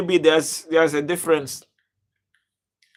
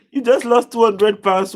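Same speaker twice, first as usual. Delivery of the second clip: laughing disbelief; 6 semitones higher, 5 dB louder than usual. Real, not acted. Laughing at viewer's big loss.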